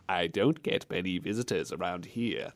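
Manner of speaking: low, quiet mock old man; put-on low creepy voice. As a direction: imitate a creepy stranger, low and hushed. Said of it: "supposed to be like a creepy old man".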